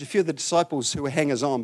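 ordinary delivery

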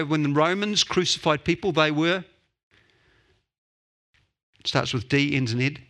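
usual speaking voice

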